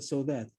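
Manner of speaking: "so that" set apart as the key words; stress on "so that". Shown as a demonstration. Teacher singling out words of the text, stressing "so that". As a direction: lean deliberately on both words of "so that". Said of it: "I just wanna stress the word".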